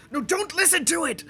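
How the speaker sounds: alarmed shout. Acted. Logain covering his ear, warning friends off the song. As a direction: yell a warning over the noise. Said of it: "Logain's going".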